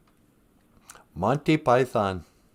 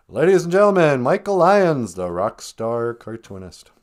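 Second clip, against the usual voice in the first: raised announcer call, slowing at the end; show announcer; 4 dB louder than usual. Pretend. Host presenting the cartoonist to the audience, playful announcer. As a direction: introduce a star with playful fanfare. Mock show introduction of his guest.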